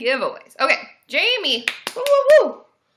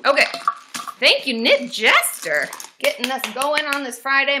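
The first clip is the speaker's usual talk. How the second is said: ordinary talk, nothing marked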